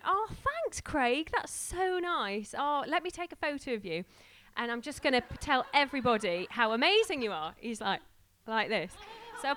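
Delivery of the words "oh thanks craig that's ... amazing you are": high, loud and effusive; gushing thanks. Retold or imitated. Thanking the Tesco driver at the door, gushing and high. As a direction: lay the thanks on thick, much higher.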